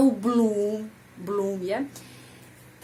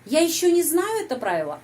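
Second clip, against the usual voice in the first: high, louder lift on "не знаю"; question intonation; 6 semitones higher, 3 dB louder than usual. Shown as a demonstration. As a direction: ask it by peaking on "не знаю", then drop. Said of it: "kalimat tanya". (nada bertanya, naik pada "не знаю")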